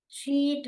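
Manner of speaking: शीट with a long ee; long vowel sound. Shown as a demonstration. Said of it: "long sound है". (शीट में लंबी ई की ध्वनि)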